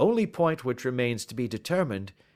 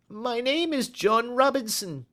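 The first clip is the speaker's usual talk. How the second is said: nervous lying man; 4 dB louder than usual. Acted. Man giving a false name.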